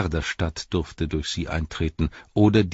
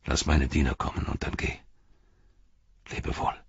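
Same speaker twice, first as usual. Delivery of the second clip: Denethor, cold and bitter. Acted. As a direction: send the boy away with bitter calm. Denethor dismisses Pippin.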